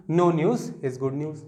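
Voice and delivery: slow, word by word reading; slow dictation. Shown as a demonstration. Teacher reads the sentence slowly to students. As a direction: read it out slowly for the class. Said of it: "ये भी सही है".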